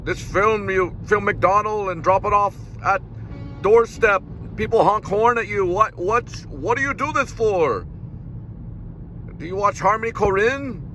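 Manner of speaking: hammed-up German filmmaker impression; mock Werner Herzog. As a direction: pester Cole in a cartoonish German accent. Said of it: "if Werner Herzog found out about all this".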